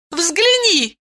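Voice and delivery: high, eager call; exclaiming. A narrator's reading. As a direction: show it off eagerly. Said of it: "воскликнула Айлин". (восклицая)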